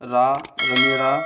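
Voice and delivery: रा, रमेरा drawn out slowly like a recital; slow drilled syllables. Shown as a demonstration. Teacher reciting the matra drill slowly for students. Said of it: "जैसे".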